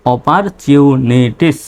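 slow "অপারচিউনিটিস" in separate pieces; teacher's slow sounding-out; syllable by syllable. Shown as a demonstration. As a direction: piece "অপারচিউনিটিস" together slowly. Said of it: "চলুন আবার এই শব্দগুলো".

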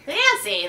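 Fancy said clearly, fan-see; Fancy crisp and clear with a falling end; correct pronunciation. Shown as a demonstration.

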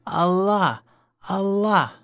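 loud, high rallying shout; battle cry. Acted. Mice rallying against the cat's army, shouting their battle cry. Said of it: "shouting their battle cry".

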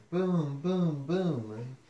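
milder rolling booms; thunder booms. Acted. Reader imitates thunder with milder booming. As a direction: boom without full force. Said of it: "Mister Brown makes thunder".

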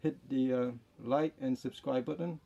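muffled behind surgical mask; through a face mask. Real, not acted. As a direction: mouth covered by cloth. Seen 4: Surgical mask covers mouth and nose throughout; reference frames unmasked.

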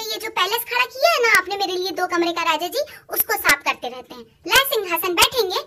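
biting wifely sarcasm; sarcastic retort. Retold or imitated. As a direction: needle him about his two-room palace.

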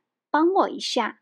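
帮我一下 said lightly, as a polite ask; 帮我一下 as a gentle, friendly favour; friendly request. Shown as a demonstration. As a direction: soften it with 一下, friendly tone. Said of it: "it sounds more friendly".

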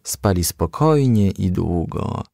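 ordinary delivery

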